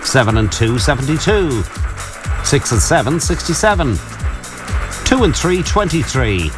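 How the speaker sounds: measured bingo number calls; bingo caller. Acted. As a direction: call each number with a pause.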